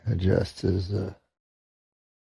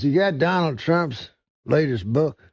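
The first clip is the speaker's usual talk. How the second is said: a hint of redneck, pitched up; higher-pitched redneck customer, lightly acted; lightly voiced redneck; 6 semitones higher than usual. Redneck customer asks the bookseller for a book, lightly voiced redneck.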